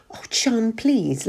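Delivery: gently pleading; mild plea to husband. Acted. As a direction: beg him to stop arguing. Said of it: "Ruth pleaded".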